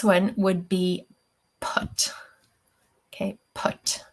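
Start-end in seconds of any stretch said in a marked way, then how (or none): 1.6-2.1 "put" with the vowel from down in the throat; isolated, careful "put"; deep horseshoe vowel. Shown as a demonstration. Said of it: "horseshoe comes from much deeper". 3.5-4.0 "put" with a short, deep back vowel; careful teacher's "put"; deep horseshoe vowel. Shown as a demonstration. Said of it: "from down in your throat".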